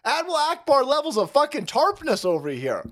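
ordinary delivery

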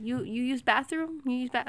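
mimicked masseuse. Customer mimicking masseuse's question, lightly put-on voice. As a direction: ask it haltingly in her voice.

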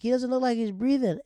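high-pitched acted panic; frantic, put-on worry; mock alarm. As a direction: report an emergency in a hammed-up high voice. Same acted panic over dog.

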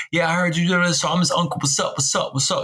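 mock the uncle's lisp and accent; imitating a lisping uncle. Uncle greets Boosie, mocked with a lisp and accent. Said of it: "talking like this with, with a lisp too, an accent".

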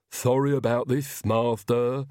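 put-on servant voice with a touch of effort; grunting Igor. A narrator's reading. Igor heaves the coffin lid aside, grunting apology. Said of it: "he grunted".

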